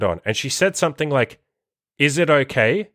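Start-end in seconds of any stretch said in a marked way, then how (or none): 2.0-2.9 tentative rising question; retold request for permission, lilting up at the end; asking permission. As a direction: ask as if needing permission, lightly imitated. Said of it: "asking me for permission almost".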